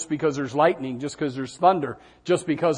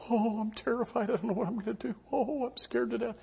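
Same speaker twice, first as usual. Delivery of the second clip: higher, softer put-on panic with a laugh; mock terrified fretting; 7 semitones higher, 8 dB quieter than usual. Preacher mocking a worried believer, hammed-up terrified whimper. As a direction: play a fretful worrier, half joking. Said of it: "That's fretting".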